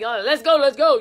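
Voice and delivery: loud cheerleader chant; rally them like a cheerleader. Acted. Choir director urging the choir on, cheerleader style. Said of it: "you know, the cheerleader type".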